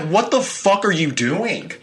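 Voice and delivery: high, slow, drawn-out alarmed outburst; startled. Retold or imitated. Boyfriend startled by a slam on the nightstand, high alarmed cry. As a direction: react to the sudden bang in the dark.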